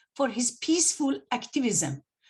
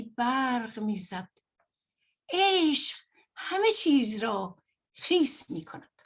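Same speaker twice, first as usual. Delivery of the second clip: measured poetry reading with pauses between lines; poem recitation; faster than usual. Acted. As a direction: recite a short Persian poem, phrase by phrase. Reads a Persian poem aloud.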